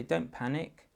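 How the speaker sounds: soothing, then settle down; reassuring. Shown as a demonstration. Parent reassuring a child who ran out of space, gently.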